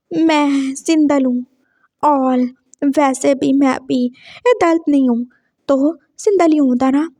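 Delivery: put-on lisping boy, a little slow; childlike lisp with softened consonants. Lisping boy admits he is single, lisped. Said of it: "तुम्हारा ये cute तोतला class fellow".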